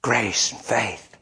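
very slow, weighted words; slow emphasis. Real, not acted. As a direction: let each word land. Sermon pause emphasis.

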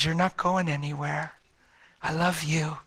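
soft tender reassurance. Retold or imitated. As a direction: comfort her gently. Husband comforts wife.

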